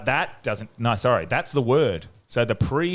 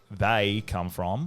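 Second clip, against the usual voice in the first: very slow THEY COME FROM, rising at the end; low, measured sample phrase, left hanging on FROM; slow citing of the phrase; 3 semitones lower, 5 dB quieter, much slower than usual. Shown as a demonstration. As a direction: draw out "They come from" as an example. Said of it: "And then if I say".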